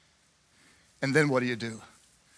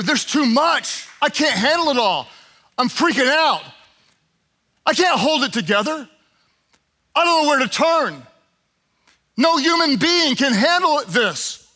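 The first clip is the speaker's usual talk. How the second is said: mock panic; 4 semitones higher than usual. Voicing anxious believer.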